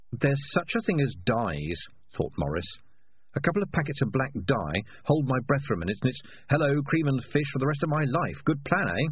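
a cat pleased with his plan; scheming cat. Acted.

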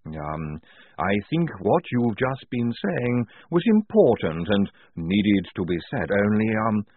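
slow, halting figure's voice; hesitant Igorina. Acted. Igorina warning of armed men ahead, hesitant. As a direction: stretch it out between ums.

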